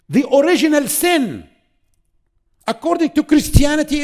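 high, loud sermon climax; fervent preaching. Acted. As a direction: drive the point home to the crowd.

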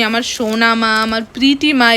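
lightly imitated, lingering endearments; affectionate child imitation. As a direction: coo pet names as a fond child would, understated. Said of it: "ওর না বেশ আদর করে ডাকে".

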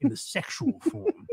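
slow, creepy fake therapist; drawn-out sleazy mock shrink. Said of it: "the most disgusting therapist voice".

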